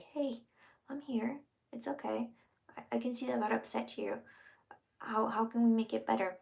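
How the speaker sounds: gentle and hushed, dropping to a whisper; soft calming voice. Shown as a demonstration. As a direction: soothe a partner, close to their face. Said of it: "but in a soft manner".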